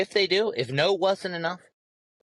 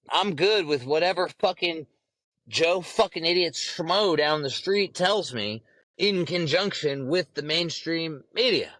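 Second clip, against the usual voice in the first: mocking lazy sheep voice; slower than usual. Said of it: "Just say".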